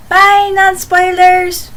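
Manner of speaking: waving off the viewers who don't want spoilers; playful farewell. Pretend.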